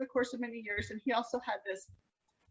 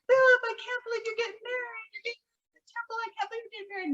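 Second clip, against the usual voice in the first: higher-pitched imitation of an excited relative; gushing disbelief; 7 semitones higher, faster than usual. Relative congratulating Philip on getting married, imitated gushing disbelief. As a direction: gush at the groom, pitched well up.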